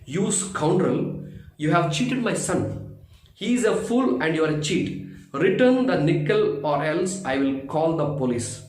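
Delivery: angry scolding. Acted. Rich merchant scolding the shopkeeper for cheating his son, furious. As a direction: storm in and tear into the shopkeeper. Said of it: "stormed into Nagendra's shop and scolded him soundly".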